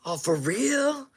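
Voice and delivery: grateful, pleasantly surprised; surprised thanks. Retold or imitated. Gang member getting his stuff back, surprised and grateful. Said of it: "he was like".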